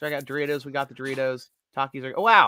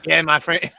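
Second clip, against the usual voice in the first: put-on French Canadian accent; 3 dB louder than usual. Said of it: "My French Canadian accent".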